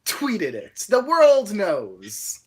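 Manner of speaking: high, loud protest; indignant shout. Acted. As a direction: shout it like it's obvious. Loud defense, slow drawn-out finish.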